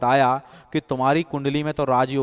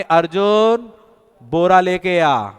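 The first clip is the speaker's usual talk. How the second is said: louder call, name then a slow order; louder second call; 3 dB louder, slower than usual. Retold or imitated. Master calling his servant a second time, louder. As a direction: shout the name once more, then give the order. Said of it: "फिर दोबारा आवाज देंगे".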